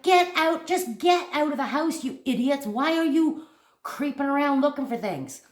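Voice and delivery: mock yell at horror-film characters; yelling at movie. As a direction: scold the fools in a scary film. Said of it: "I'm always yelling at the damn".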